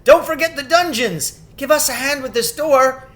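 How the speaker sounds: high, loud calling out; crying out. A narrator's reading. Freed statues calling out to each other, loud and high. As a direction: shout it across the castle. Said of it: "everyone's voices crying out at once".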